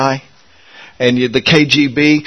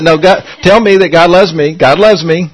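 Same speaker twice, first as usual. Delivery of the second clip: me pointed out, louder and higher; stress on me; 4 semitones higher, 4 dB louder than usual. Shown as a demonstration. Preacher acting out correcting Lisa's wording, stressed me. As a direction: lean on the word me to show the mistake. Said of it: "say you instead of me".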